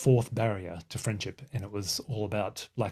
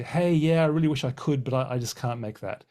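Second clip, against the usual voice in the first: polite brush-off; 3 semitones higher, 4 dB louder than usual. Retold or imitated. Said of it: "bat that away and say".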